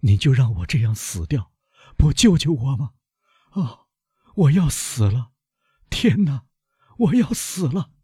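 high, pleading cry of a dying man; desperate cry. A narrator's reading. Dying servant begging the doctor, high frightened cry. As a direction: beg not to be left to die, pitch rising. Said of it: "巴鲁瓦大声说".

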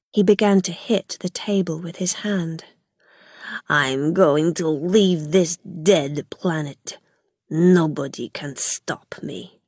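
a madman murmuring his escape plan; hushed manic raving. Acted. Gog hushed and unhinged before Rilla.

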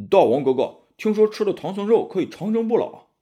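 little demon. A narrator's reading. A small demon tells its king, eager high voice. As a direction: chirp it like an eager imp. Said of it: "一个小妖怪说".

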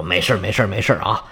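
low, soft reassurance; calm your wife down after an outburst; hushed-down, comforting old husband; soothing. A narrator's reading. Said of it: "上来安慰自己妻子说".

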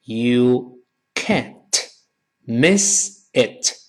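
spaced out word by word; word-by-word model. Shown as a demonstration. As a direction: separate "can't", "miss" and "it" with pauses. Teacher models phrase in pieces.

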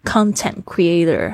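"content creator" 里content重读CON，慢速示范; 把重音放在content的第一音节CON; stress on CON. Shown as a demonstration. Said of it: "它的重音就会跑到前面去了". (content creator：重音在前的CON-tent，放慢示范)

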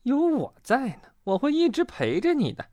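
high, gentle character voice; kindly high-pitched promise; comforting. A narrator's reading. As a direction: reassure your scared friend. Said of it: "跳跳安慰他".

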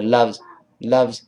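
"loves" quick, with the final z nearly inaudible; barely voiced ending. Shown as a demonstration. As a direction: pass lightly over the z in "loves". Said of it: "loves一带而过". (“loves”快读，z一带而过)

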